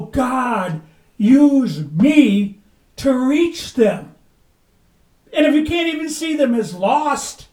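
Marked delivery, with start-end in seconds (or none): 0.0-4.1 slow, louder plea to God; earnest prayer. Pretend. Preacher voicing the prayer he wants, slow plea. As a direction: draw out the cry to be used.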